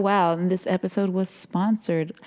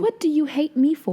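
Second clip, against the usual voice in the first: mock whiny woman; 8 semitones higher than usual. Playing the other woman.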